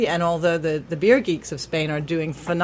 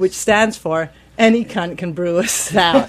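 laughing; 6 dB louder than usual. Real, not acted. Punchline told while laughing.

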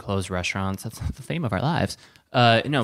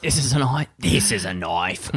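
mock Australian accent; broad Aussie vowels on the key word; Crocodile Dundee. Joking movie quote about a knife, mock Australian accent. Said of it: "Crocodile Dundee".

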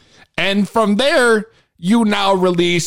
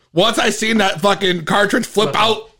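ordinary delivery

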